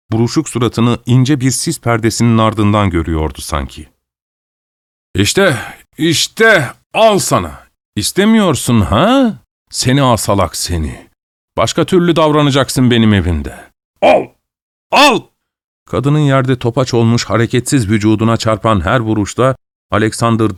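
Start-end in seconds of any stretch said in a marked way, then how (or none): 5.1-15.2 husband yells while kicking his wife; furious beating rant. Acted. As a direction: hurl each word with the blows.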